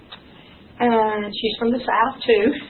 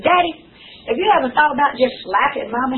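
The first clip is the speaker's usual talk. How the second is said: cheeky high question; 3 semitones higher, 4 dB louder, faster than usual. Retold or imitated. Daughter's cheeky question to father.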